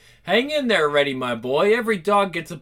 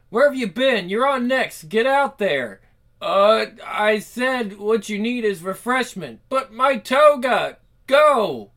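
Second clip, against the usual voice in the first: high, loud rushed orders; high-pitched frantic stage manager; frantic hurry; 4 semitones higher, 4 dB louder than usual. Acted. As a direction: push her onstage in a panic.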